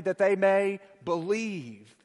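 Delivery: slow, drawn out, every word leaned on; slow unison recital. Shown as a demonstration. Preacher leading the congregation in unison, slowly. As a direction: lead the church to say it together, slowly. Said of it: "Say it with me".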